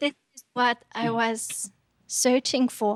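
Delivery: ordinary delivery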